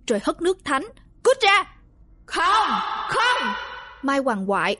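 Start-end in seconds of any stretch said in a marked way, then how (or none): 1.2-1.6 higher, louder command; shaman shouts at the evil spirit. A narrator's reading. Exorcising the spirit. 2.3-3.5 shrieking refusal. A narrator's reading. Spirit screams in protest.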